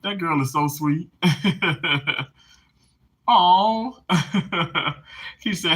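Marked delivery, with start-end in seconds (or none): 0.0-4.9 touched, tearful giggles; laughing and crying. Real, not acted. Moved by sister and viewers, laughing and crying. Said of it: "I'm laughing and crying simultaneously".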